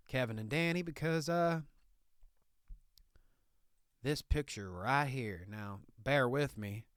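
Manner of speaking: Southern hick lawyer bit, laid on thick; redneck Southern lawyer. Acted. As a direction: play a proud country lawyer in a thick Southern accent. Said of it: "What's with this accent, Nicky".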